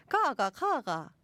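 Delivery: slow, swooping Gyeongsang tones; Gyeongsang dialect. Shown as a demonstration. Host demonstrating a dialect phrase, Gyeongsang accent. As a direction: show off the Gyeongsang tones slowly. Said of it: "가가, 가가는 갱상도 말인데".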